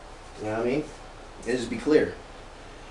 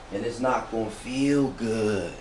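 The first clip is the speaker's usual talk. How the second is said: slow, laid-back hippie drawl; 4 dB quieter, slower than usual. Pretend. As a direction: ease it out like a mellow hippie. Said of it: "In my hippie voice".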